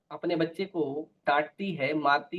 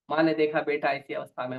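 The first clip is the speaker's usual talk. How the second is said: ordinary talk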